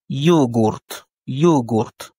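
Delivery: yogourt in Russian, stress on the O; Russian pronunciation. Shown as a demonstration. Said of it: "l'accent tonique est mis sur le O".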